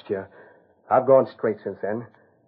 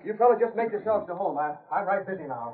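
flustered; 8 semitones higher, 6 dB quieter than usual. Acted. Steve rattled, hurrying away.

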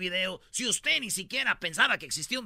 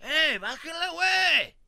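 higher, much louder mock dad yelling; angry dad; 7 semitones higher, 11 dB louder, much slower than usual. Retold dad yelling at the priest, hammed-up. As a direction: bark like the annoyed father. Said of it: "Se enoja como el papá, le dice".

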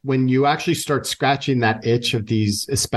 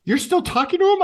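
much higher, incredulous wife voice; surprised wife; faster than usual. Retold or imitated. Wife catching husband on video chat late, high incredulous voice. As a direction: squeak it out like a stunned wife.

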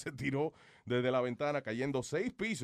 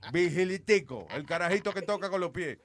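announcer voice; 4 dB louder than usual. Acted. Announcing a show act.

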